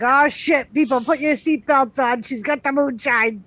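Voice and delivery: mock panic as he warns everyone to buckle up; retold mock alarm. Quoting his moonshine warning to everyone, mock alarm. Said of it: "he's like".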